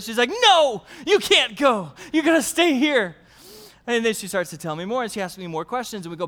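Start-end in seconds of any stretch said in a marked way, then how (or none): 0.4-3.2 pleading daughter. Retold or imitated. Daughter begging dad not to leave, high and loud. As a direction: imitate a little girl clinging to dad.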